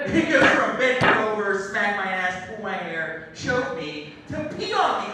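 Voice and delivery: rising into a loud high punchline; building. Retold or imitated. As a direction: build it up to the last item. Escalating list of requests.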